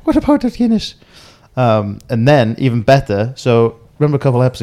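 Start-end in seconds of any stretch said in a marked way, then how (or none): 0.0-1.0 very high, loud comic wail; heightened mock dismay. Co-host milking the bombed pub joke, heightened mock dismay. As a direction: squeal it in hammed-up outrage. Repeats the joke, higher and louder.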